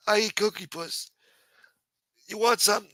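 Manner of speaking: high, dismissive put-on councilman voice; A-Light voice. Councilman brushing off the harasser, high put-on brushoff. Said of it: "My A-Light voice changed".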